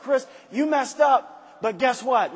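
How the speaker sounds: loud, slow, firm call-out; loud self-talk. Retold or imitated. Speaker scolding himself by name in the mirror, loud. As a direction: hold yourself to account out loud.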